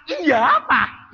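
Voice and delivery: hammed-up children's shout; children cheering. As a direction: call it out like the kids did. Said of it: "anaknya semua sorak".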